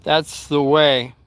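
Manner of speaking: a hint of grandpa, dropping low with long pauses; retold grandfather. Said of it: "My grandfather said".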